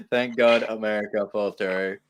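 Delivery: put-on slow line with a faint Irish accent; Irish-tinged Trump. Mocking Trump, slipping into an Irish accent. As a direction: drift into a light Irish accent. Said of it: "I started going, like, I R A member".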